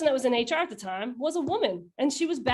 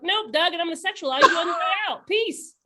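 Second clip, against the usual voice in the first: higher and laughing through a cheeky dismissal; mock brush-off, laughing; 6 semitones higher, 3 dB louder than usual. To Doug at the clinic, a laughing cheeky brush-off. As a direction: toss him out with a giggle, faster. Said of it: "And I'm like".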